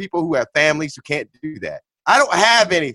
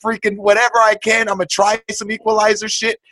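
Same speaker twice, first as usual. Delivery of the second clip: high, louder defiant vow; mock defiant vow; 6 semitones higher, 4 dB louder than usual. Vowing never to take the mark, high and loud. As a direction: declare it like a last stand. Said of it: "just say".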